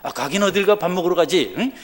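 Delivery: mock brusque answer to a friend; brusque casual reply. Shown as a demonstration. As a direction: toss it back carelessly. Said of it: "이러지 말고 말이죠".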